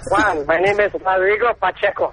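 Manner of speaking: weak fake Mexican accent; hammy put-on Spanish accent; bad Spanish accent. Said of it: "that's a pretty bad Spanish accent".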